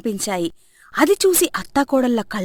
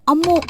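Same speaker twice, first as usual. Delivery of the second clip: higher-pitched pained "ammo"; loud groan of pain; 7 semitones higher, 4 dB louder than usual. A narrator's reading. Rajani bumps her head on the bed, pained groan. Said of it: "గట్టిగా మూలిగింది".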